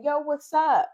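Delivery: mock Black-accented greeting, loud and high; imitating code-switching. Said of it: "her normal voice".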